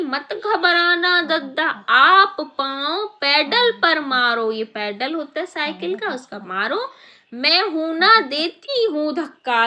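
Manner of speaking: brave little ant cheering him on; ant reassuring. Acted. Ant promising the elephant a push, lightly voiced. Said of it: "बोली".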